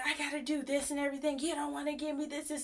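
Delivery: lightly voiced complaining customer; mock huffy customer. An annoyed customer huffing at the cashier, mild mock whine. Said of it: "He was just like".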